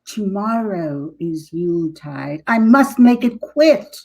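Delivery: a hint of a grumbling witch; lightly voiced witch grumbling her plan; mild witch voice muttering with grit. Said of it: "She grumbled with grit".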